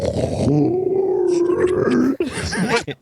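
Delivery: high, drawn-out fake snore; long rasping snore put on for show; demonstrated snore. Shown as a demonstration. Sleeper showing friends his own snore, imitated. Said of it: "that's like me".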